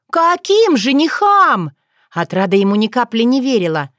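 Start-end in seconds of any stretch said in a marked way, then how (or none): 0.1-1.7 high, slow disbelieving question; can't believe a word of it; incredulous. Acted. Otrada questioning Bogdan's story, incredulous.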